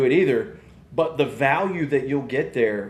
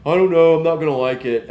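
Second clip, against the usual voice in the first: put-on whiny kid; 3 semitones higher, 6 dB louder than usual. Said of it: "bitching the whole time".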